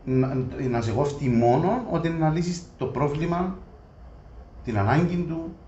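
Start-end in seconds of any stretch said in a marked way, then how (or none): none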